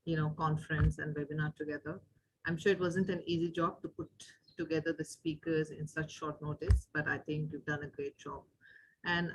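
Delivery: very faint, far-off voice; hard to hear, mic set too low; barely audible. Real, not acted. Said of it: "your voice is very low".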